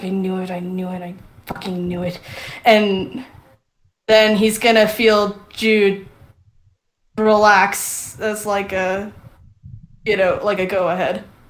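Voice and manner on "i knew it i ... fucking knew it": low, muttered half-whisper, quietly to himself. Voicing a character who mutters to himself: half-whispering, muttering to himself. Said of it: "kind of whispering, t-, muttering to himself".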